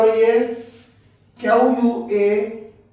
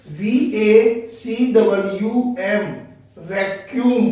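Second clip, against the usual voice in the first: slow spelling. Shown as a demonstration. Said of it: "sound आ रही है यू ए की".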